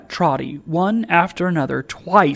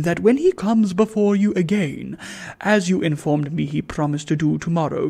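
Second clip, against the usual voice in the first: pompous gentleman. Acted. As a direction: read it like a pompous squire. Sir Joseph's letter read pompously.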